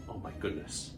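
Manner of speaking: whispered. Pretend. Wand breaks again.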